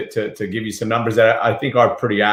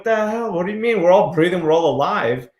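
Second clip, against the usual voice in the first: much higher, incredulous squeak; mock baffled crowd; 8 semitones higher than usual. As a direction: play the whole confused crowd, pitched way up. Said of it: "And we're like".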